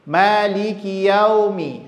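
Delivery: "yaumi" with the glide ending on o; salah, au jadi ao. Shown as a demonstration. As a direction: chant "Maliki yaumi" with "yaumi" as ya-o-mi. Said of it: "kesalahannya a dengan o". ("yaumi" dibaca yaomi, a dengan o)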